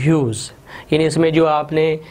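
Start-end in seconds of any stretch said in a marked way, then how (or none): 0.0-0.5 "ह्यूज" alone, one syllable with silent g; pronunciation model. Shown as a demonstration. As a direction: say "ह्यूज" with a falling tune, ending in z. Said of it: "इसकी pronunciation जो है ना वो ह्यूज है".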